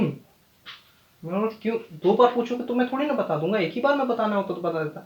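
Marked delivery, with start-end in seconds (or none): 1.6-5.0 sassy back-talk. Retold or imitated. Cheeky retort to dad.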